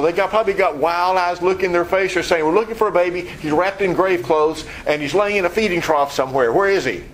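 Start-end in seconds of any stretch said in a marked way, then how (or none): 2.4-7.0 desperate asking. Retold or imitated. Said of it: "They were desperate".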